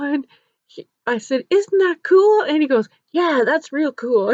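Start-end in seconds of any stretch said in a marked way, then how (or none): 1.5-2.4 high, loud and upbeat; upbeat enthusiasm. Retold or imitated. Helper prompts a speechless principal about a child's drawing, upbeat. Covering the principal's awkward moment. 3.1-4.3 slow, louder, forced agreement; awkward agreement. Retold or imitated. Flustered principal answers before hurrying out, awkwardly agreeing. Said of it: "he didn't know what to say".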